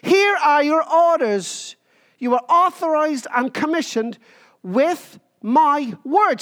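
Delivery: slow, deliberate commanding voice; lightly voiced commander giving orders; military command. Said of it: "It's like a military command".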